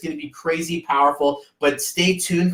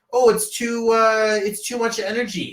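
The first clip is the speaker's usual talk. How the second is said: higher-pitched mock grandparent protest; complaining grandparents; 7 semitones higher than usual. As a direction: imitate grandparents making weary excuses. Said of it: "other grandparents are gonna be like".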